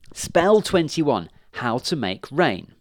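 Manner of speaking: slow, high and loud announcement; excited reading. Acted. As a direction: read the title out with glee. Witch reads spell aloud eagerly.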